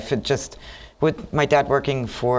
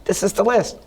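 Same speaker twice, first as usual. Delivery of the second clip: eager insistence; 5 semitones higher than usual. Retold or imitated. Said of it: "I was like".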